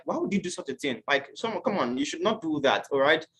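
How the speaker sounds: soft, quiet gentle questions; gentle correction. Retold or imitated. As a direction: correct them kindly and softly. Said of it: "the normal way I would have reacted".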